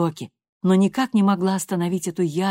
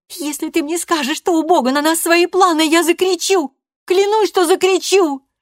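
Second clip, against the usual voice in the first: much higher and louder, near shouting; furious threat; 13 semitones higher, 7 dB louder than usual. A narrator's reading. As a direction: threaten her mother at full pitch. Loredo threatens to scream.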